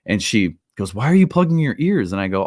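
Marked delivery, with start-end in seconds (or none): 0.9-2.1 tipsy stranger's question. Retold or imitated. Drunk woman at concert asks.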